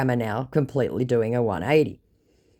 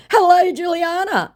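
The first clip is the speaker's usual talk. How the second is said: scammer voice; 8 dB louder than usual. Retold or imitated. Scammer greeting voiced high.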